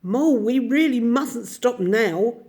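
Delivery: high, loud call from far ahead; hurried call to keep moving; calling back. A narrator's reading. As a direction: shout back over the distance. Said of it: "he called back".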